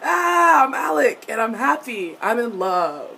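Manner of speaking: loud high gush easing down. Retold or imitated. Imitating Alec's voice turned cute and cheery, giddy high mimicry. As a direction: mimic a giddy, cheery young man in love. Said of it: "it's gotten higher and more cheery".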